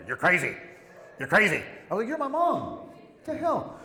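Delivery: loud, high-pitched yelling at mom; retold exasperated outburst. Son tells his mother she's crazy, in loud exasperation.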